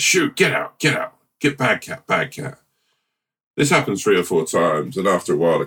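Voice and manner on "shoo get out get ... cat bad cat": shooing the cat. Acted. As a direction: shoo the cat off the garden. Owner chasing the cat again.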